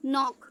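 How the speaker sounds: "नॉक" starting on an n sound; silent K. Shown as a demonstration. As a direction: say "नॉक" with no k before the n. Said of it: "तो वो silent होगा".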